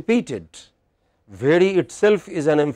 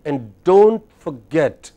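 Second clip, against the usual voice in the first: slow lilt with a long, rising "don't"; chant-like, measured "And don't forget"; sing-song; 4 dB louder, slower than usual. Shown as a demonstration. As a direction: draw out "don't", then fall on "forget". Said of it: "it's like sing song".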